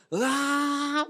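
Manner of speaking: drawn-out mock waking wail; imitated child's groan. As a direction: groan like a child being woken. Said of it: "그럼 애들 어떻게 합니까?". (잠 깨는 아이 칭얼대는 소리 흉내)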